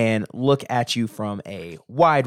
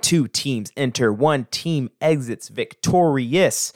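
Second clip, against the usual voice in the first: ring announcer. Acted.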